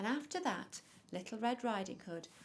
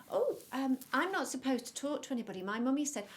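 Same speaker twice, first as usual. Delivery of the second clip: lightly voiced child, higher and louder; a hint of a wary storybook child; hesitant little girl; 6 semitones higher, 7 dB louder, faster than usual. A narrator's reading. Red Riding Hood answers a stranger, lightly voiced and hesitant.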